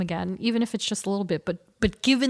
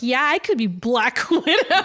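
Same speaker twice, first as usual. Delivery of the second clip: laughing; 2 semitones higher, 3 dB louder than usual. Retold or imitated. Laughing at tween self.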